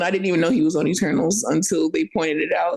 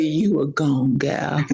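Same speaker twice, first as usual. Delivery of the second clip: put-on country accent; 6 semitones lower, slower than usual. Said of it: "when you say it in a country accent".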